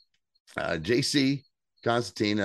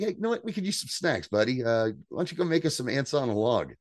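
higher, sugary buddy-buddy voice that gets rid of him; fake-friendly brush-off; 4 semitones higher than usual. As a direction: sweetly shoo the dad off to the kitchen. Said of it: "he's like".

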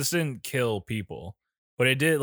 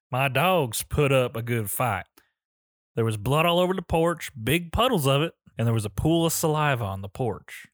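Southern hillbilly twang; country accent. Retold or imitated. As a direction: read it like a country farmer. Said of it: "Like my country accent?".

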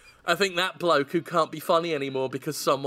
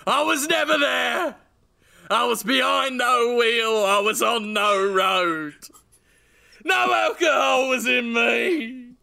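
defiant denial; 4 semitones higher than usual. Pretend. Character defiantly denies crime.

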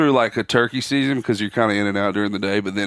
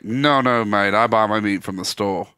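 put-on Australian accent. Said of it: "He was like".

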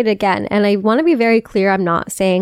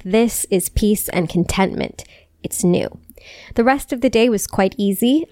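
poem reading. Acted. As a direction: let each line of the poem settle. Reads a poem aloud.

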